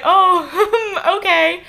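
laughing, imitating a stunned brother; laughing take on his surprise; shocked brother. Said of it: "He was sort of shocked".

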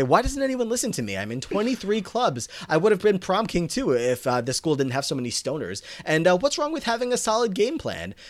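high, mock-indignant outburst; exasperated complaint. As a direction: act out someone protesting at being ignored. Acted complaint, cutting someone off.

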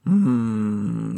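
a drawn-out hum whose voice breaks; voice cracking. Real, not acted. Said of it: "声ひっくり返っちゃった".

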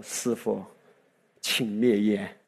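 1 polite request. Retold or imitated. Asks driver to stop smoking.

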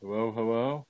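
static-filled call; crackly cordless phone. Real, not acted. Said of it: "I don't know what you're saying".

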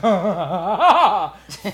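loud, long mock panic cry; hammed-up wordless freak-out; panicked wail. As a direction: cry out as if told you might die. Acts out panic at heart attack warning.

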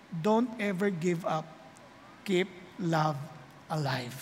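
low, soft, slow whisper-like plea; soft quoted whisper. Acted. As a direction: breathe it gently. (mahina at mababang bulong)

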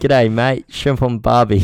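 loud, hammed-up Australian twang billed as Austrian; mock Austrian accent. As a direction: joke Austrian accent that comes out broad Aussie. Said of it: "wanna hear my Austrian accent".

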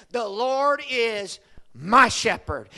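slow, pressing on my; insistent David. Retold or imitated. David insisting it is personal, stress on my. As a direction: lean hard on my, slowly. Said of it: "David was insistent".

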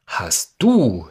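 a loud, dreadful demand with the stress on du; terrible cry. Acted. The accuser cries out to the great face, loud and terrible. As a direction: cry out the words Hast du in horror. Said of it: "schrie er mit schrecklichem Tone".

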